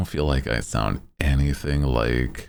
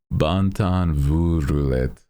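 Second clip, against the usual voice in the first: put-on Cajun accent; 2 semitones higher, slower than usual. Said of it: "That's, that's Cajun right there".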